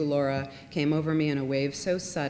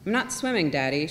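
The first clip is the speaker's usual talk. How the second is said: put-on child calling out; 4 dB louder than usual. Young daughter calling from water.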